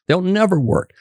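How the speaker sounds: "never" pitched high and hit hard; stress on never. Real, not acted. Physician insisting to the host that thirty-day rehab fails, stressing "never". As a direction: punch the word "never".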